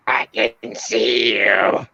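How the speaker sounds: slow, eerie hint of a demon; lightly voiced creepy demon. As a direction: drag it out like something unseen. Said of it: "and it goes ... like that".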